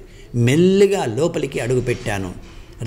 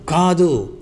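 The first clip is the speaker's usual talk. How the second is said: a higher mock cry of no; shouting no; 5 semitones higher, much slower than usual. A guilty narrator shouts down his inner accusers, mild shout. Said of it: "గట్టిగా అరిచాను".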